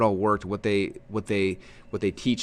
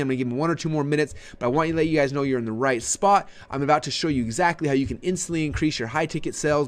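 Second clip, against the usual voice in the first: fast, lifted webinar pre-start patter; excited; 4 semitones higher than usual. Shown as a demonstration. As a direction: keep the energy up for callers. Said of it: "they're hearing that excitement".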